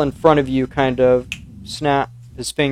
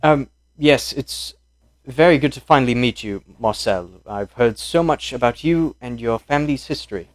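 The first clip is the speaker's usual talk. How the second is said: put-on British accent. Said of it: "to do Italian and British".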